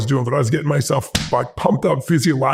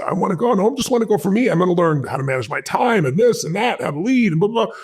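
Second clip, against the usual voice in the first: 1 passionate plea; 6 semitones higher than usual. Retold or imitated. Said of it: "I got even more passionate".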